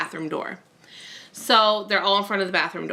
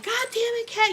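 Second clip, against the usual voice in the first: mock curse. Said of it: "And I'm like".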